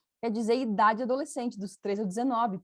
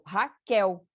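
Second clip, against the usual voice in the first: Raquel with the second syllable, quel, hit louder; stress on the last syllable; 4 dB louder than usual. Shown as a demonstration. Teacher showing the strong syllable in her own name, stress on Raquel's last syllable. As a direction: punch the end of Raquel. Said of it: "O Kel é a sílaba forte".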